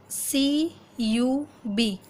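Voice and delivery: slow, letter by letter; name each letter slowly; spelling letters. Shown as a demonstration. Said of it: "यू का इसी तरीके से".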